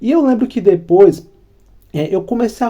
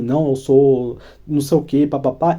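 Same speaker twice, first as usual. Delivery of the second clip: dismissive tone; 3 semitones lower than usual. Shown as a demonstration. Woman turning down a suitor, mildly dismissive. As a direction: demo an uninterested reply. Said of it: "um tom de voz meio assim".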